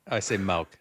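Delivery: "milk" as "mell"; "milk" said with an e sound. Shown as a demonstration. Cohost shows he says milk with an e. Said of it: "with an E".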